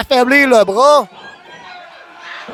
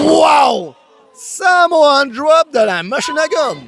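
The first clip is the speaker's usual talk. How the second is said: excited shout; 3 semitones higher, slower than usual. Real, not acted. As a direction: yell it as the slam lands. Big slam in the match.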